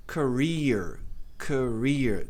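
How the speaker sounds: "Career" as kuh-REER, long EE; long I sound. Shown as a demonstration. Teacher drills the word, slightly smiling long vowel. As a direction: stretch the stressed EE in "Career". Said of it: "tem som de I longo".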